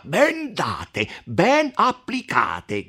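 slow, gloating approval; the count cheering the beating of the messenger; mild shouting count. A narrator's reading. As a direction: relish every word of the beating. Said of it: "gridò il conte Attilio".

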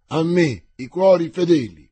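loud call to the loyal; rallying cry. A narrator's reading. Winter calls his last loyal men, shouting. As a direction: summon the faithful. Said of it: "gridò Winter".

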